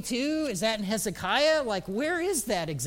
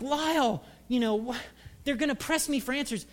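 lightly whiny protest, raised pitch; younger self protesting; 5 semitones higher than usual. Acted. Preacher protesting to his mentor, mildly pleading. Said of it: "And I'm like".

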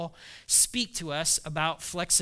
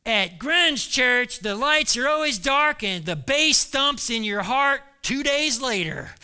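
hip churchgoer; 4 semitones higher, 5 dB louder than usual. Retold or imitated. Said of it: "problems that churches have".

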